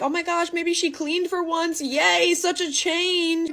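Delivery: high, bubbly delight; chirpy, high-pitched joy; happy. Retold or imitated. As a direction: act delighted to find the room cleaned. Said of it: "I'm all happy".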